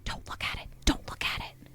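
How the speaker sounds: urgent story-character whisper, very soft. A narrator's reading. Denisha pulls Ashley back inside the tent, whispering. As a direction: whisper it without any voice.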